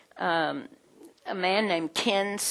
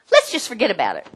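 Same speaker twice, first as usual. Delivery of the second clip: weak apology; 2 semitones higher, 6 dB louder, faster than usual. Acted. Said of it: "Weak apologies".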